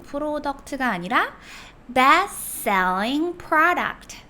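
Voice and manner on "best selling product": "product" with a wide open ah sound, "프라닥트". Shown as a demonstration. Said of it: "오 발음을 하실 때 아 입모양을 하면서". ("product" 입 크게 벌려 프라덕트)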